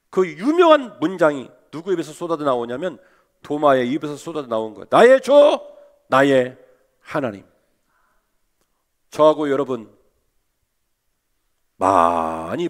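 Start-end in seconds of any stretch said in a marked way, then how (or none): 4.9-7.4 rising cry of faith; climactic cry. Retold or imitated. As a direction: cry out then sink into awe. Thomas's climactic confession.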